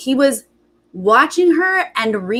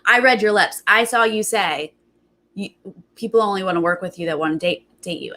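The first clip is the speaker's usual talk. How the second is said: knowing accusation; 3 semitones lower, faster than usual. Retold or imitated. Recapper imitating him confronting her over lip-reading, knowingly accusatory. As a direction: mimic someone sure of the evidence, then let it fade. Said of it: "this is exactly how he's doing it".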